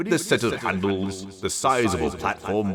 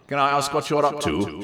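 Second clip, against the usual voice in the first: humble; 8 semitones higher than usual. A narrator's reading. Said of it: "she humbly inquired".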